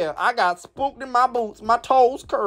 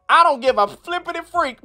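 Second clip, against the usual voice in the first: laughing; 4 semitones higher than usual. Real, not acted. Reading comment while laughing.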